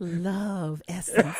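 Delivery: slow, laughing promo read of the title; mock announcer voice. Shown as a demonstration. Host copying the co-host's title read, slow. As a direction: draw the title out slowly, laughing. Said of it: "Do I got the love right?".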